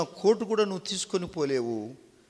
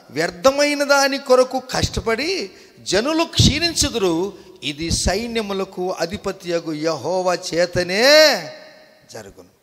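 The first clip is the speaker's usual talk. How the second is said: raised, emphatic scripture declamation; preaching; 3 semitones higher, 7 dB louder than usual. Real, not acted. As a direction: declaim the verse to the congregation. (ఉద్వేగంగా వాక్య పఠనం)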